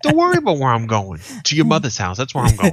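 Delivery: mock a nosy stranger with a mom joke; loud smug retort; sassy comeback.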